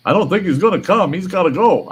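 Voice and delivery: imitating the neighbour. The neighbour pleading about his dog, mocking voice. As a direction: play the guy as a bit whiny. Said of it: "he goes".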